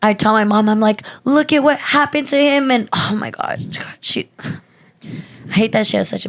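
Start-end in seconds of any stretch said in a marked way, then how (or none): 1.2-2.7 higher-pitched pleading quote; urgent retelling. Retold or imitated. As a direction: press it on her, pitched up. Retelling plea to mom.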